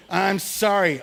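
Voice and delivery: tossed-off apology, no feeling behind it; half-hearted sorry. Retold or imitated. Boy tossing a quick sorry at his brother, half-hearted. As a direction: say sorry just to get it over with. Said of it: "say it like you mean it".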